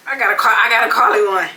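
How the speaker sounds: loud call. Real, not acted. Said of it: "I'm sorry".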